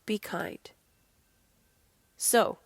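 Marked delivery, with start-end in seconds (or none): 0.1-0.7 whisper. Retold or imitated. Gentle self-talk, repeated.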